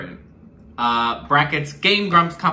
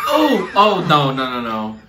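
disgusted; 5 dB louder than usual. Real, not acted. Reacting to gross challenge.

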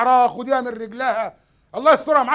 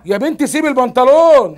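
raised-voice aside; exasperated scolding; 6 dB louder than usual. Acted. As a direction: break off louder to scold the child. On phone, scolds clinging child.

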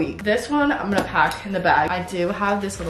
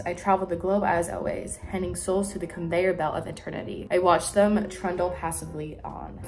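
reading aloud; 4 dB quieter than usual. Shown as a demonstration. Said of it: "Let me just read you the first page".

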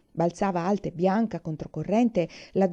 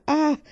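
startled gasp; 8 semitones higher, 5 dB louder than usual. A narrator's reading. Cold rain hits her.

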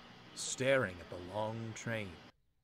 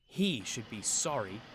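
retorting; 4 dB louder than usual. Acted. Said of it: "retorted Thomas".

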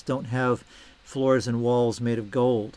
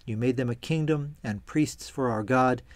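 measured, even scripture reading; solemn Bible reading in an unhurried voice. A narrator's reading. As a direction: read the passage aloud with clear, falling phrase ends. Reads scripture aloud before commenting.

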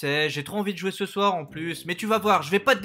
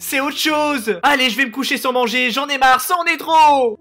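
upset protest; 5 semitones higher, 5 dB louder than usual. Acted. Upset son protests to parents.

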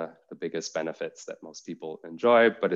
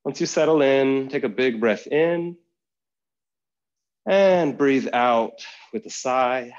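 guided meditation; 3 semitones higher than usual. Acted. Yoga teacher settling students in to practice, guided meditation voice. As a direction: guide listeners unhurriedly into rest.

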